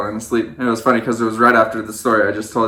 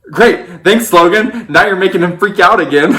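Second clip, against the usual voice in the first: sarcastic thanks; 7 semitones higher, 5 dB louder than usual. Retold or imitated. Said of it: "are literally just like".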